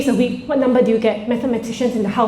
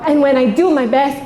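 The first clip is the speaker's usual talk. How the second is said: put-on child voice. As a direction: play the earnest proud child. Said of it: "and she goes".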